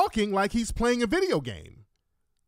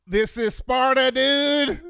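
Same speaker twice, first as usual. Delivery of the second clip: louder, higher mock battle cry; Sparta shout; 6 semitones higher, 6 dB louder, slower than usual. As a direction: bellow it like a movie king. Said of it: "watching three hundred".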